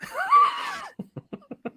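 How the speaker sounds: sudden high squealing laugh. Real, not acted. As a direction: burst out laughing in a shriek. Real burst of laughter.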